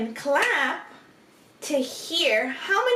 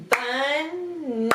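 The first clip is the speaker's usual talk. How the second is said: "Bun-ni" as two drawn-out, higher chunks; split into syllables; 4 semitones higher than usual. Shown as a demonstration. Teacher clapping one more time, word split in two. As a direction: hold "Bun", then a separate "ni". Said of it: "listen carefully".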